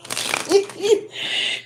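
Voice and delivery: a breathy giggle way up high; real high-pitched laugh. Real, not acted. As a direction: crack up at your own joke. Laughing at the irony.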